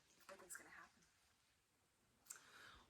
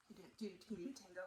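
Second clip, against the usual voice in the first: usual speaking voice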